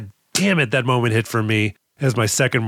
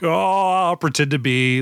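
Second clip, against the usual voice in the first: bad guy; 4 semitones higher than usual. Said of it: "have your bad guy".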